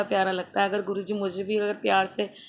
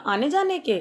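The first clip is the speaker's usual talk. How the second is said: surprised question; 6 semitones higher than usual. Retold or imitated. Shocked at auto fare.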